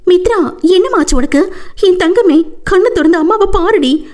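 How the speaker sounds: high-pitched tearful plea to a fainted daughter; crying mother. Acted. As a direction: beg her daughter to open her eyes. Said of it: "அழுது கொண்டே".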